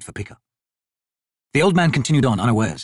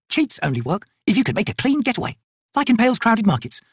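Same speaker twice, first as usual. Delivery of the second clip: high-pitched, dry soldier voice; sceptical soldier; 10 semitones higher than usual. Acted. Soldiers weigh up the trader's claim, sceptical. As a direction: call out a swindle.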